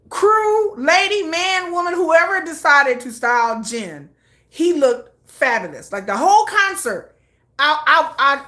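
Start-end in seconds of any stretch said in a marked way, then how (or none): 0.1-4.1 calling out to stylist. Real, not acted.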